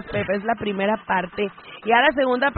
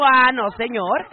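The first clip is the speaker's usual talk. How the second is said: slow, stretched ah no señor; drawn-out refusal; wife defiantly refuses; indignant; slower than usual. Retold or imitated.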